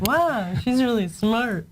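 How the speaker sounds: teasing imitation of amazed wow; mock surprised. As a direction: copy his surprised tone, playfully. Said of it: "He sounds so surprised".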